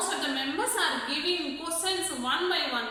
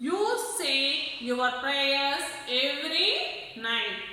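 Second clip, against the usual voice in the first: slow, stern preachy gentleman; mild gruff gentleman; slower than usual. Acted. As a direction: lecture him sternly and slowly. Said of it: "said another gentleman in gruff voice".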